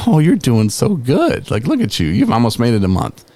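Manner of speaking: mock doting voice, high then settling; gushing intake lady. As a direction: imitate an over-impressed lady cooing praise. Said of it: "And she's like".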